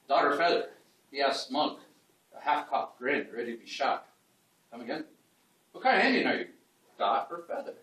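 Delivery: measured recital with short acted questions; poetry reading. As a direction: read the verse aloud in separate beats, lifting the quoted question. Recites poem with dialogue.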